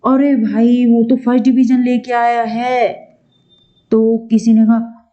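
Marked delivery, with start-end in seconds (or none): 0.1-3.1 lively, lifted announcement; acted news-breaking. Shown as a demonstration. Teacher acting someone announcing a first division, lively news-breaking. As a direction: share big news with a lift.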